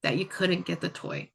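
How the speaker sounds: put-on slow, soothing reassurance to a frustrated child; calm validating voice. Shown as a demonstration. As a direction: gently acknowledge the feeling, slowly. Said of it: "I might say something like".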